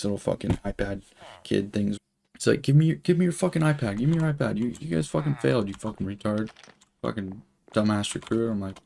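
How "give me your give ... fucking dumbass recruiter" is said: angry drill instructor. Retold or imitated. Drill instructor scolding, retold.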